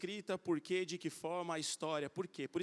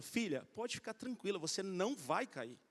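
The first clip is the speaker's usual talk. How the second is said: reassuring father; 5 dB quieter than usual. Retold or imitated. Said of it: "que sou o pai".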